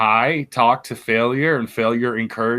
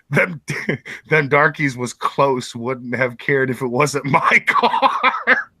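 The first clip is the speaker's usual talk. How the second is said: laughing through a quote; slower than usual. Retold or imitated. Mimicking a friend's quote, laughing.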